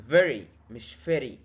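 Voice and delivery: very said slowly, first with a true v, then wrong as f; slow contrast demo. Shown as a demonstration. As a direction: drag out very to show v against f. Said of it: "طب ازاي انطق very".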